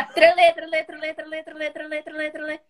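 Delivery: sing-song blah blah chatter; imitating an endless talker; 1 mocking blah-blah. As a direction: mimic someone who never stops talking.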